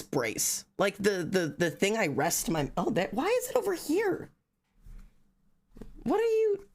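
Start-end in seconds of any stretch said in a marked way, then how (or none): 2.8-6.7 very high surprised squeal; high-pitched baffled squeal; startled squeak. Real, not acted. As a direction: shriek up in disbelief. Finds mouse brace moved.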